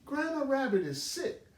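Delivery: put-on a small child full of his plan; eager Little Rabbit. Little Rabbit tells Mama Oriole his plan, high and eager.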